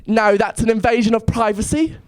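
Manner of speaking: a lightly put-on English accent, prim refusal. English girl at a bar refusing her number, light English accent. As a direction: pretend to be an English girl turning him down in an English accent. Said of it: "I'm gonna try an English accent".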